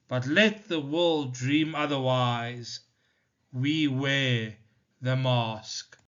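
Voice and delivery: slow, measured poem reading; solemn recital of a poem; poem recitation. Acted. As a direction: read the poem with weight, line by line. Teacher reads the poem aloud.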